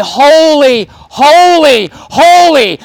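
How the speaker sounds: angels' threefold cry. Shown as a demonstration. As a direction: cry each "holy" out like the angels before God. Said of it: "But they cry".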